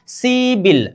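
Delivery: सीबिल run together, p turned into b; सीबिल as one linked word, see-bil; linked pronunciation. Shown as a demonstration. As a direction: say सीबिल joined, with a b sound. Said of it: "इसका उच्चारण क्या होनी चाहिए?".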